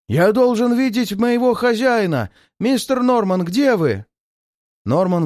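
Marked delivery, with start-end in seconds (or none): 0.1-4.1 frantic yell. A narrator's reading. Drunk servant calling his master, high frantic yell. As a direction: bellow for your master at the top of your lungs. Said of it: "раздался неистовый вопль".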